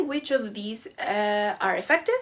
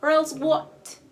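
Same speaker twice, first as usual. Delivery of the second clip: defiant retort; 5 semitones higher, 6 dB louder, slower than usual. Retold or imitated. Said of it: "the student retorts".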